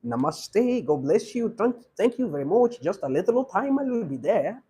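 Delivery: mock Indian English with a bobbing, singsong lilt; imitated Indian accent. Teacher showing students how Indians speak English, imitated Indian accent. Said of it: "You hear them say".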